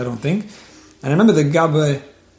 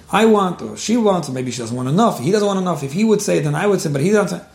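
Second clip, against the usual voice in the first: higher-pitched, sing-song complaint, mildly imitated; childish bickering tune; 3 semitones higher than usual. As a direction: lightly mimic petty back-and-forth bickering. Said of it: "is somewhat of a childish tune".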